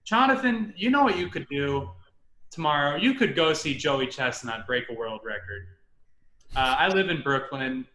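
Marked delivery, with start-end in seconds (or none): 0.1-5.7 lightly voiced dad. Dad phones his son with a suggestion, lightly imitated. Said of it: "my dad called me".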